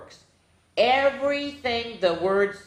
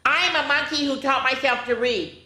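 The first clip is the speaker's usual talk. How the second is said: monkey voice; 5 semitones higher than usual. Pretend. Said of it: "in my monkey voice".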